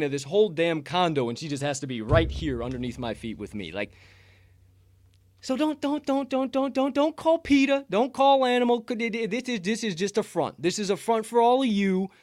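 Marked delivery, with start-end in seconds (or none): 5.4-12.1 high-pitched, stammering, rapid repeats; mock panicked plea. Real, not acted. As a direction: plead frantically in a raised, high voice. Mock panic over screaming cat.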